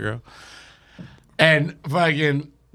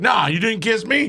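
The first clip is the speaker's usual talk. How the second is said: shouting; 6 semitones higher than usual. Retold or imitated. Friend's shocked reply in story.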